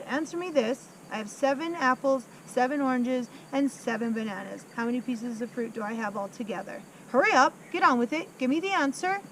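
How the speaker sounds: bullying headmistress. Acted. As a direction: hurry up, give me the answer, fast and pushy. Trunchbull grills Wilford.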